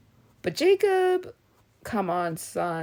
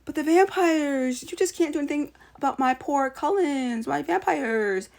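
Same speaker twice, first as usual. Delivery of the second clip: mocking Bella; 4 semitones higher than usual. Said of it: "you're always just so".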